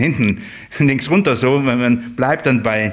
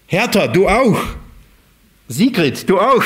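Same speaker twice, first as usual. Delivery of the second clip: calling out names; 5 semitones higher than usual. Acted. Shepherd calls sheep by name.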